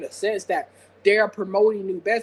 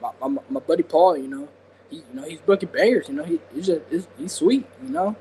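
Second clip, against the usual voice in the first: attempted wrestler impression; a light, casual take on a wrestler's voice; Kevin Nash; 2 semitones lower than usual. Shown as a demonstration. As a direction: loose impression with easygoing you-knows. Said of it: "gonna try my, uh, Kevin Nash voice".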